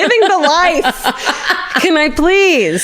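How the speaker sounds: high, laughing wistful plea; laughing mock envy. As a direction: beg through giggles to share the fate. Imagined envious listener quote.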